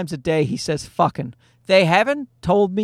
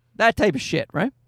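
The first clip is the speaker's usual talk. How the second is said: ordinary talk, nothing marked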